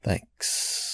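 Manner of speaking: clipped, breathless little thanks; curt thanks. Retold or imitated. Date dismissing him with a curt thanks. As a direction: toss off a cold thanks. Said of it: "She just goes".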